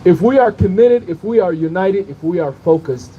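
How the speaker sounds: rising refrain, building each time; rally oratory. Real, not acted. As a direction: preach it to the crowd. Rally speaker chanting a rhetorical refrain.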